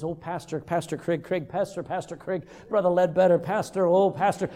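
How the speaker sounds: monotone string of titles, never pausing; mock repetitive address. Someone addressing the pastor like a prayer, mock droning. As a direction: drone it like an endless invocation. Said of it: "Somebody comes up to me and says".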